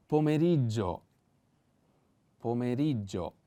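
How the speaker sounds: "pomeriggio" with the stress on the first e, po-ME-riggio. Shown as a demonstration. Teacher showing the stress in "pomeriggio". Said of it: "on the first E".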